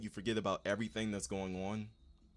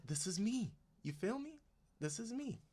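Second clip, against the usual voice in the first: high laughing; 14 semitones higher than usual. Real, not acted.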